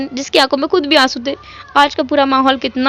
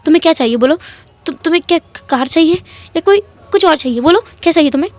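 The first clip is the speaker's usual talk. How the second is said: overjoyed father; faster than usual. Acted. Overjoyed father, tumbling words.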